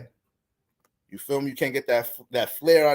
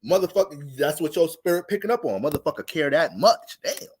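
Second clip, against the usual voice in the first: mock delighted woman; 7 semitones higher than usual.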